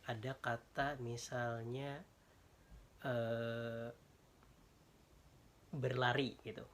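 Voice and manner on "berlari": BERLARI with clear open A in "la"; clearly articulated. Shown as a demonstration. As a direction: say "berlari" crisply, every letter as written. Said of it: "Kan jelas nih".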